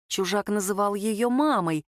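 ordinary delivery

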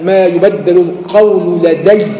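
slow, measured Quranic reading; slow Quran recitation demo. Shown as a demonstration. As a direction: recite it slowly and evenly. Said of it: "آه".

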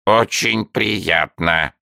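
a newt being very well-mannered; courteous salamander. A narrator's reading. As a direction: salamander answers with polite courtesy. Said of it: "учтиво молвил Энди".

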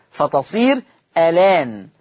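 ألان said slowly with the fatha on the lam and no hamza; slow teaching demo of ألان; hamza moved onto lam. Shown as a demonstration. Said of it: "هشيل الهمزة واخد الفتحة احطها على اللام".

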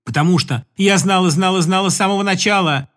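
Katka's love song. Acted. Katka pleading with Igor to fly away with her. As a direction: pour out a desperate love lament. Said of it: "Любовная песня Катьки".

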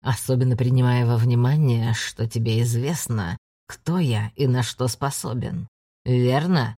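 low menacing hiss of a demon; nightmare spirit. Acted. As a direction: loom over him and hiss. Ander threatens, low.

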